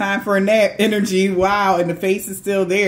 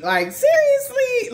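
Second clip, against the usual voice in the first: mock exasperation; 3 dB louder than usual. Real, not acted. Exasperated rhetorical question.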